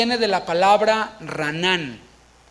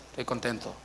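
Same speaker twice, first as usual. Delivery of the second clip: much softer, lower, flat mumbled Estoy contento; joyless reply; 7 semitones lower, 11 dB quieter than usual. Retold or imitated. Brother saying Estoy contento without feeling it, mocked by the preacher. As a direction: say Estoy contento softly and low with no joy at all. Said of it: "su cara no refleja lo que está diciendo".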